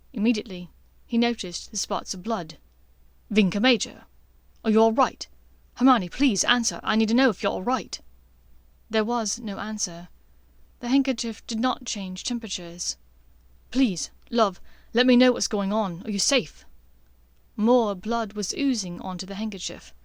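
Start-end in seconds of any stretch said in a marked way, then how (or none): 3.3-8.0 urgent, louder pleading; Draco anxious. Acted. Draco pleading through the handkerchief, urgent and worried. 13.7-16.7 louder, urgent plea; pleading Draco. Acted. Draco begging Hermione to say she's safe, urgent.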